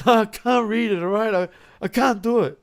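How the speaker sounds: high-pitched mock protest; frustrated struggling reader. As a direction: play a flustered man giving up on reading. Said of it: "he'd be like".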